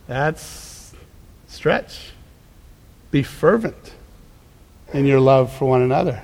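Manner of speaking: whispered stretch, dropping almost to breath; hushed. Real, not acted. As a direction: pull them in with a sudden hush. Preacher drops to a hush.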